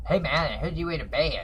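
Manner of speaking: a hint of a high-pitched little man; high-pitched little guy. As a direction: squeak it out like a small guy, lightly. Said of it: "That's how he talked. He used to be really high-pitched".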